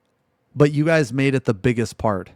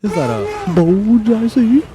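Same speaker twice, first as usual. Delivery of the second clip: surprised; 9 semitones higher, 9 dB louder than usual. Real, not acted. Shocked at the video.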